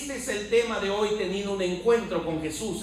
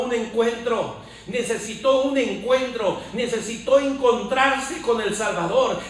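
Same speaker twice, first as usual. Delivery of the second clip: forceful preacher hammering parallel phrases; rousing sermon delivery; fervent preaching; 4 dB louder than usual. Real, not acted. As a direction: proclaim it with conviction, pushing each repetition. Preaches Paul's change to congregation.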